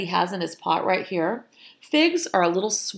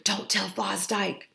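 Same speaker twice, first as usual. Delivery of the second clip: softer, anxious fussing; 2 semitones higher, 5 dB quieter than usual. A narrator's reading. Fox fussing that their failure be hidden, softer fussy voice. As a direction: fuss under your breath, keeping a secret. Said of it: "fussed Fred".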